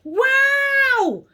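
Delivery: high, loud, drawn-out cry of wonder; amazed. A narrator's reading. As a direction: let it swoop with delight. Closing exclamation at the discovery.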